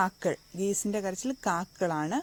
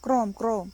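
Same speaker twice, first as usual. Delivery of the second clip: lightly imitated frog croaking; 4 dB louder than usual. Shown as a demonstration. Teacher shows learners how a frog cries, lightly croaking. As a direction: give two short croaks like a frog. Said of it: "തവള കരയുന്നത് എങ്ങനെയാ?".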